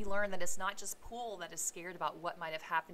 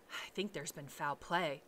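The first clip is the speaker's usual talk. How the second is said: hoarse. Acted. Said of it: "said Poole hoarsely".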